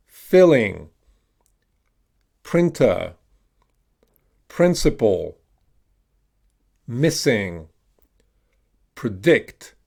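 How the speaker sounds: each word alone with the I of "is", as in "missing"; "printer" with short I, falling tune; short I modelled. Shown as a demonstration. Teacher has learners repeat short I words, careful drill delivery. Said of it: "I'm gonna pronounce it as an I".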